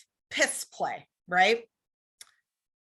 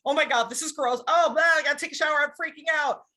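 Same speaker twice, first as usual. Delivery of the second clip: mock freak-out; 3 semitones higher, faster than usual. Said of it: "Instead of going".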